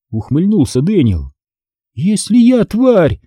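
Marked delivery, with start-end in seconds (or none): 1.9-3.2 high, drawn-out cross comeback; irritated, higher-pitched jab back; snappish retort. A narrator's reading. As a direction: retort crossly, leaning on the words. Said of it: "огрызнулась я".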